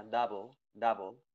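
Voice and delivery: "double" said dabl, second vowel swallowed; near-silent vowel. Shown as a demonstration. Teacher shows the upside-down E, "double" as dabl. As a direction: go from b straight to l in "double". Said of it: "esa vocal prácticamente no suena".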